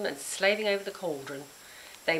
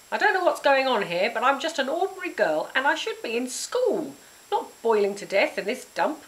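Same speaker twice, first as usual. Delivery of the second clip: higher, louder angry rant; angry shout; 6 semitones higher, 4 dB louder than usual. Acted. Girl ranting at Grizz, angry shout. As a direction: pour it all out. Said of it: "I shouted".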